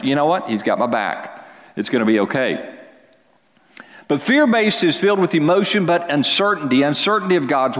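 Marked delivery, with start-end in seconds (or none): 0.0-2.7 calm assurance. Retold or imitated. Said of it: "you have this assurance".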